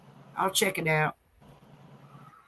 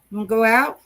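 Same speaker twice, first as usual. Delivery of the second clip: louder, rising teasing question to a dog; riling up dogs; 5 dB louder, faster than usual. Real, not acted. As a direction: get the dog worked up to go out.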